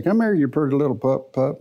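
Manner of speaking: sweet, coaxing talk to a puppy. Shown as a demonstration. Preacher showing how to call a little dog, sweetly coaxing. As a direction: coax the little pup in sweetly. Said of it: "and just talk real sweet".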